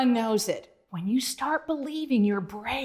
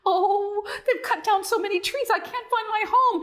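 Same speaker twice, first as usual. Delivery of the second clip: high, loud lost-frog call; yelling; 9 semitones higher, 4 dB louder than usual. Acted. Lost Bonzo calling for help, high and loud. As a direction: call out through the jungle. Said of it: "Bonzo yelled".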